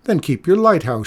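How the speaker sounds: put-on old woman shouting at the keeper; angry shout. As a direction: snap it back at him in anger. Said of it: "shouted Mikola".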